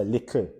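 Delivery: "little" said "likl", no vowel before the L; Jamaican Creole "little". Shown as a demonstration. Teacher showing the spelling's sound, "little" as "likl". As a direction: end "little" on a syllabic k-L. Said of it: "K L".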